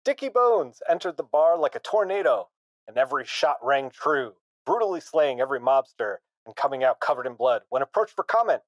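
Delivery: lightly voiced old newsreel announcer; a hint of a thirties radio announcer, hammed up; old-timey radio voice. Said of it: "Imagine it in old-timey radio voice".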